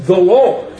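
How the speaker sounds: "The Lord" hit hard and loud; weighty emphasis on "The Lord"; stressed THE. Shown as a demonstration. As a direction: land firmly on "The Lord". Quotes Psalm, stressing THE.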